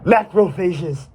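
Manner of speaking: drawn-out call, then a high shouted order; battle command. Acted. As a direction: send the troops charging. Commander orders troops forward.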